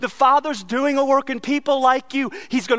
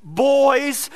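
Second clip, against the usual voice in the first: dad calling; 4 semitones higher, 3 dB louder than usual. Retold or imitated. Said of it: "generally just not boys".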